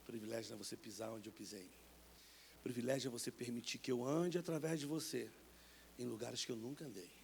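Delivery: a hint of a calm divine voice; voice of God. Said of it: "Deus começou a falar pra mim assim".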